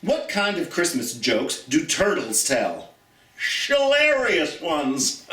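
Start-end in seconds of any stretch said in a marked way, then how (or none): 3.7-5.3 slow punchline breaking into laughter; laughing. Real, not acted. Teacher cracking herself up on a turtle joke, laughing. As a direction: laugh through the answer to the riddle.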